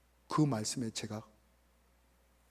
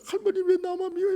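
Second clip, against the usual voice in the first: put-on crying child's protest; 12 semitones higher than usual. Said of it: "막 울면서".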